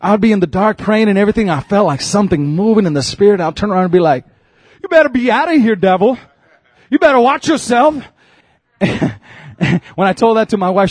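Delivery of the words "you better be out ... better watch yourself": retold warning to the devil; lightly acted defiant comeback; talking back. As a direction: tell off an unseen intruder, half in play. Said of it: "I started to talk back".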